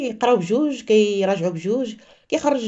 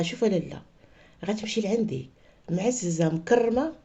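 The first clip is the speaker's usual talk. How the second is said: kind offer; 2 semitones lower, 5 dB quieter than usual. Retold or imitated. Father kindly offers the widow home.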